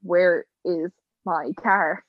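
drawn-out disbelief; stunned slow question. Retold or imitated. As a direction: ask it slowly, lost for words. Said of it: "I was like".

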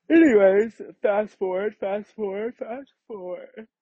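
high, rising sing-song fast forward. Pretend. To the listeners, skipping the story ahead, in a high sing-song.

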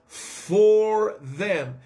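earnest spoken prayer. Acted. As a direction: pray over him, steady and fervent. Prays aloud for Frank.

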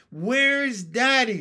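high, loud, stretched-out wail; childish scream. A narrator's reading. Froglets bunched round their mother, screaming for their father. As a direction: scream slowly for a missing parent. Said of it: "screamed the froglets".

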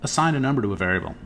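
high-pitched imitation of the boss; mock-patient boss, voice lifted. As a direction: imitate a boss simplifying the task. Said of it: "he goes".

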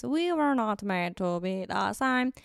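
eerie otherworldly alien voice. Shown as a demonstration. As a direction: speak like a strange alien. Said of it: "Saying that in an alien voice".

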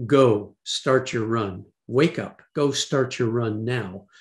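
retold command, slow and deliberate; measured orders, imitating a commanding voice; forceful voice. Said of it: "he, it was forceful".

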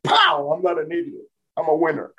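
self pep talk. Retold or imitated. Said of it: "And I started".

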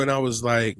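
normal talking voice

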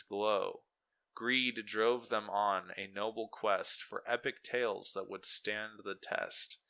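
measured epic verse reading, lines drawn out at the close; poem recitation. Acted. Reading out the AI's Shakespeare-style poem, solemn measured recitation. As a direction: recite it like a noble battle poem. Reads the generated poem aloud.

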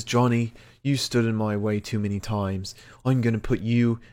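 lightly attempted British accent, Pete Dunne's; understated wrestler's threat in Pete's British accent; a hint of Pete's British accent. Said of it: "he braved Cameron's and Pete's accent"

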